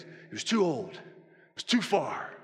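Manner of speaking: crestfallen, fading to a low murmur; dejected boy. Acted. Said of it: "What does he say? He says".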